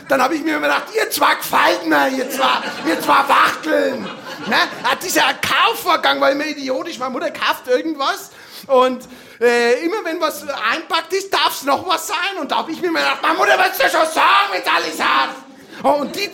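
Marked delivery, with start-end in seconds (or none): 0.9-4.0 louder, mocking grumble; sarcastic jab. Child's sarcastic inner jab. 13.2-15.3 higher, louder exasperation; exasperated protest. Retold or imitated. Child's exasperated inner protest.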